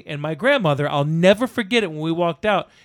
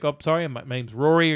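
lower-pitched, polite mock introduction; retold meek politeness; 3 semitones lower than usual. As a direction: imitate an awkwardly polite apology. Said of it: "he's being all polite and everything".

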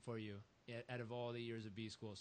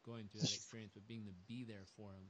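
much softer, tender and low; moved and soft; 3 semitones lower, 7 dB quieter than usual. Real, not acted. Host touched by the father story, soft and tender.

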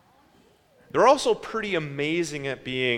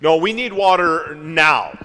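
mock-angry demand, a bit louder; 5 dB louder than usual. Israelites demanding water from Moses, mock-angry. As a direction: insist like a thirsty, impatient crowd. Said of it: "the argument kinda went like this".

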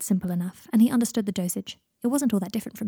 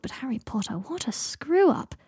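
mocking; 6 semitones higher, slower than usual. Mocking through laughter.

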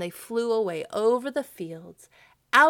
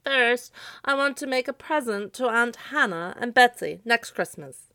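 high, louder scarecrow voice; 4 semitones higher, 6 dB louder than usual. A narrator's reading. Scarecrow sets terms for Santa, high voice. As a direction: pitch it high and firm.

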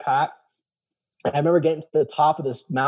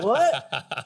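mock surprise; 8 semitones higher than usual. Dad's mock astonishment.

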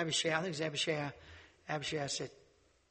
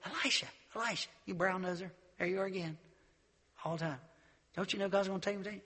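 mocking preacher boys; 2 semitones higher, faster than usual. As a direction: taunt him from across the road. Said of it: "Here's some more preacher boys".

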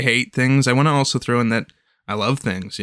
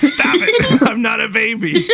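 high whiny protest; 10 semitones higher, 4 dB louder than usual. Pretend. Protesting being babied.

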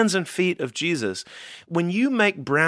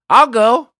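eager volunteer; 7 semitones higher, 9 dB louder than usual. Retold or imitated. Prophet volunteering to God.

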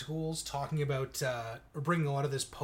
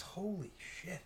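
laughing; 3 semitones higher, 10 dB quieter, much slower than usual. Real, not acted. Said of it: "couldn't even get through that without laughing".

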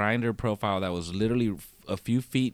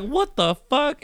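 high, slow incredulous what the fuck; mock-shocked reaction; retold disbelief; 6 dB louder, slower than usual. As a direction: drag it out in disbelief. Retold reaction to cake offer.

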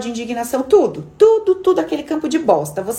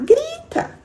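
mock dare to shout; 8 semitones higher than usual. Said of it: "Você gosta de gritar?".

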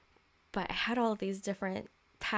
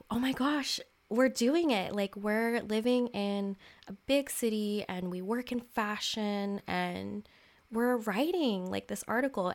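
put-on giddy inner child; 2 semitones higher than usual. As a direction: squeal it like your eleven-year-old self. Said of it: "she was like".

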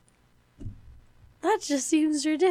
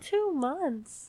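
higher, disbelieving question; incredulous echo; 4 semitones higher than usual. Real, not acted. Shocked echo of host's fact.

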